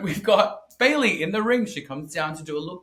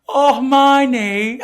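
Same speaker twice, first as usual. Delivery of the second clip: laughing; 7 semitones higher, 9 dB louder, much slower than usual. Real, not acted. Laughing fit after impression.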